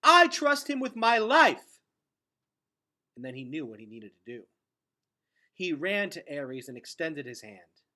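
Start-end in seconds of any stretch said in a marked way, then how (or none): 0.0-1.8 loud, high, slow vow; passionate declaration. A narrator's reading. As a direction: declare it to everyone. Gregor defends Ares loudly.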